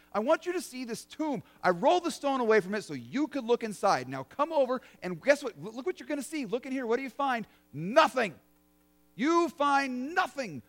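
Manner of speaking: lightly voiced angel teasing with a reveal; playful angel. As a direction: coax them to look inside, then land "nothing". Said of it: "the angel looks at you and says".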